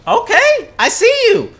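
high, loud praise for a teammate; hyped cheering. Real, not acted. Gamer hyping teammate Yin Yang's knockdowns, high loud cheering. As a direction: cheer them on, grinning.

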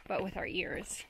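a hush, as if listening to the woods; whispered. Acted. Hiker telling viewers to listen, whispered. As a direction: drop to a soft whisper for the ears. Hushed point about listening.

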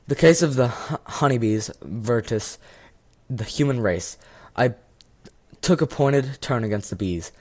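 lightly voiced self-important judge reading the docket; mock-solemn courtroom judge; pompous judge. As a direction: announce the case like a grand magistrate. Judge reads out the case.

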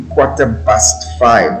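"Ikwata bust five" as township street talk for quarter past five; street pronunciation. Shown as a demonstration. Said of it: "the way people use the language on the street".

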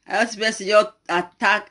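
usual speaking voice

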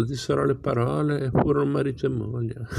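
real laugh breaking through the words. Real, not acted. Reader laughs at the story.

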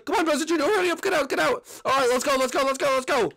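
high, loud rushed urging; urgent hurry. Acted. Rescuer frantically hurries Bowser Junior out of the cell. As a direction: hurry them out in a frantic mock panic.

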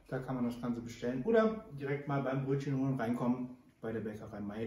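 mumbled through a bite; mouth full. Real, not acted. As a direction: talk round a mouthful of stollen. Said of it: "Ich rede immer noch mit vollem Mund".

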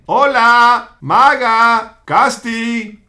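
drawn-out calls for missing friends; calling out. Pretend. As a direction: call each friend, stretching the words. (llamando a los amigos, alargando las palabras)

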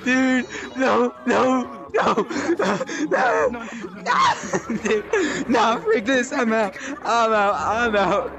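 laughing in real fright, pleading no over and over; panicked laughing pleas. Real, not acted. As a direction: beg it to stop while laughing nervously. Fleeing scary monster in VR.

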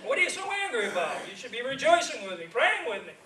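laughing protest to friend Bob; mock indignant. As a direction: tease him for being angry. Retold argument with friend Bob.

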